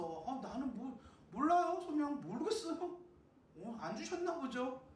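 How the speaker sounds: high-pitched mock know-nothing voice; dismissive excuse. Believer who never asked God, mock shrugging excuse. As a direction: plead ignorance, pitched well up. Mimics someone shrugging off their calling.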